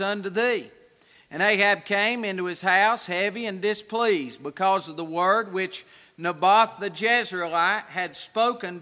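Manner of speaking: solemn King James reading; scripture reading. Acted. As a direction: read it out like scripture. Reads scripture aloud.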